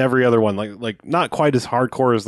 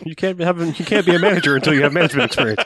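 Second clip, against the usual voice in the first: high mocking voice; 7 semitones higher, 3 dB louder, faster than usual. Mocking catch-22 logic.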